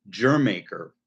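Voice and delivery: "Jer Maker" said slowly, first word rhyming with her; alternate pronunciation. Shown as a demonstration. Vlogger lists another name for the song, slow alternate pronunciation. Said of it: "or they call it".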